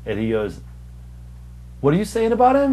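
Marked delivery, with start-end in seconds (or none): 1.8-2.7 pissed off. Retold or imitated. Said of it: "he was so pissed off".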